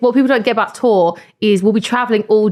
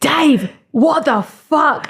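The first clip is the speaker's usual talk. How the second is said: mock annoyed; 6 semitones higher, much slower than usual. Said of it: "So I was just like".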